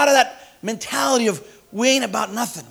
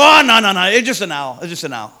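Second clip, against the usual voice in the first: mob dismissive; 5 dB louder than usual. Retold or imitated. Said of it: "They go".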